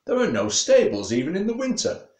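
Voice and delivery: a hint of a scoffing big horse; snorting horse. A narrator's reading. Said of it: "snorted Thor".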